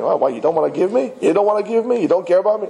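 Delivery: high, mock whiny pleading; lightly hammed-up complaint; imitating a complainer. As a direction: play the spoiled one asking for handouts. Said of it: "you're gonna come complaining".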